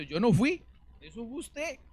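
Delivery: loud, high whiny protest, half crying; a hammed-up devil wailing his innocence; mock crying devil. Preacher voices the weeping devil blaming Christians, loud mock whine. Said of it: "visualice al diablo llorando".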